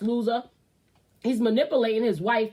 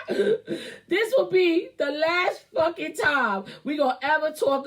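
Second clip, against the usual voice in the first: slow words pushed through laughter; laughing while talking; 4 semitones higher, slower than usual. Real, not acted. Laughing as she swears off the topic. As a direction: still cracking up as she declares it.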